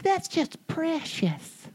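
high, slow doting mom voice; mom's fond quote. Retold or imitated. Niece's scribbles make mom coo it. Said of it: "And my mom's like".

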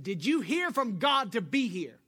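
high, loud demanding yell. Retold or imitated. Coworker demanding an answer, a high loud yell. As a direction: shout the question up at them. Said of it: "she yelled at me again".

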